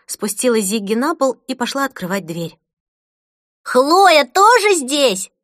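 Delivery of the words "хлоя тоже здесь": put-on slow, high, loud joyful child's cry; excited child. Boy hopping with delight hearing a friend arrive, high excited cry. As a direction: squeal it like a boy jumping with joy. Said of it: "Зигги радостно прыгал".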